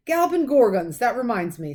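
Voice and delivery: loud, high exclaim; giant's exclamation. A narrator's reading. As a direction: burst out suddenly.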